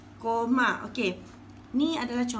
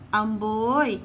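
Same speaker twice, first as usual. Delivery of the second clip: a playful wow, louder; exclaiming; 4 dB louder than usual. Shown as a demonstration. Teacher demonstrates an exclamation with admiring amboi. Exclamation example for tanda seruan.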